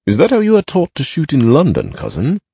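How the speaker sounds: a mild laughing jeer. A narrator's reading. Master teasing his cousin about shooting, laughing mockery. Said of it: "laughed the master".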